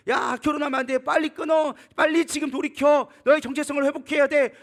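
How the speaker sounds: loud, high mock scolding; acted rebuke. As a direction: scold them urgently, as in a retelling. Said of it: "처음에는 책망합니다".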